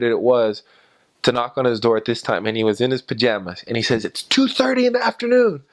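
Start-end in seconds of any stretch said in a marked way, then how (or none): 4.0-5.6 retold shout. Angry man in pajamas shouting at missionaries at his door. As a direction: bellow it like a woken angry neighbor. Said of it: "he just shouted at us".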